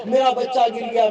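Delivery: alarmed cry with मेरा pushed hard; panicked mother. Acted. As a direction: call out in fright for the fallen child. Mother hears child fall.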